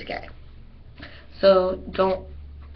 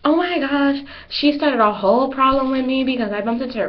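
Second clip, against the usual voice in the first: put-on gossiping girl; 5 semitones higher than usual. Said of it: "she's gonna be like".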